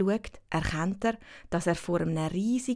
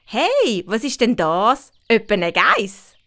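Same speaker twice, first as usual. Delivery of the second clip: put-on excited girl voice; 3 semitones higher, 8 dB louder, slower than usual. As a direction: gasp it out like a curious kid. Winnie voiced in story.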